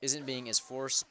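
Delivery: slow, deliberate retry of "Isn't being as forced"; careful retry. Shown as a demonstration. Gamer redoing a line he fumbled, slow and careful. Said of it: "I can't speak".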